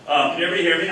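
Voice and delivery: coaching voice. Real, not acted. Specialist without a mic projecting to the whole room, coaching voice. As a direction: carry it to the back without a mic. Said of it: "I'm gonna use my coaching voice here".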